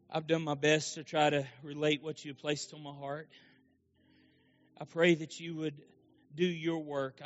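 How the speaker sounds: earnest altar prayer. Acted. Pastor praying over the altar, earnest. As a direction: pray it humbly over the room.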